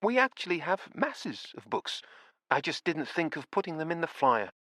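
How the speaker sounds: put-on a kindly old widow amazed at her own books; surprised old lady. A narrator's reading. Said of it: "with a note of surprise in her voice".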